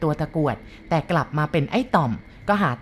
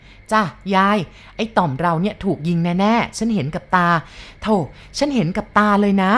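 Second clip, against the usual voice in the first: urgent insisting; 2 semitones higher than usual. Acted. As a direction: insist you saw it yourself. Maid insists to cook.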